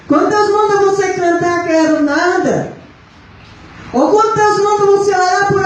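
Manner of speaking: high, sustained preaching tone. Real, not acted. Chiding those who refuse when God sends them, preaching. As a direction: challenge the congregation in long, pitched phrases.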